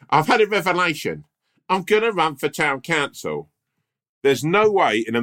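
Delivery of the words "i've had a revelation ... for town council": political voice. Retold or imitated. Romesh as Tom announcing his council run, high pompous impression. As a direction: announce it like a self-important candidate. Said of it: "this is your political voice".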